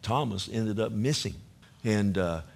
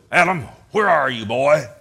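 loud calling voice, a bit far off; a father calling into the garden; God calling out; 9 dB louder than usual. Acted. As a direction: call for the lost son from afar. Preacher voicing God calling Adam.

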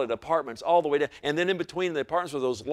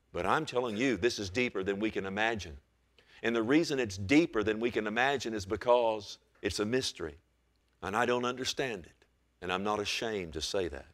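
soft, low and solemn; hushed confession; 5 semitones lower, 7 dB quieter than usual. Real, not acted. Preacher admits to congregation he doesn't understand, hushed. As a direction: drop low and quiet to admit the mystery. Preacher confiding awe at a mystery.

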